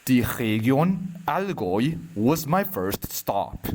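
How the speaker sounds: measured poem reading with long pauses between lines; poetry recitation. Acted. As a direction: recite it line by line, unhurried.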